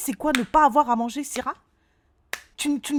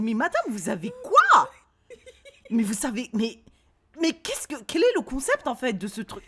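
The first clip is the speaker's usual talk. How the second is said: exasperated; 2 semitones higher than usual. Retold or imitated. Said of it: "j'ai dit".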